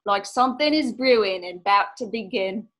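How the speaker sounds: light mock Cockney accent, storyteller lilt; a hint of a Cockney sea-dog telling an omen. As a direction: set a spooky scene in a playful Cockney accent. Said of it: "that was my Cockney accent".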